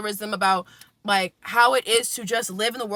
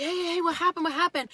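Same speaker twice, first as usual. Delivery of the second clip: retold alarm; 7 semitones higher, 4 dB quieter, faster than usual. Bakery owner rushes out asking.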